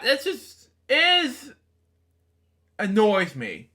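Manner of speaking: squeaky-high, drawn-out exasperation; annoyed. Real, not acted. Reader vents about the story, exasperated. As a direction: leap way up in pitch with annoyance.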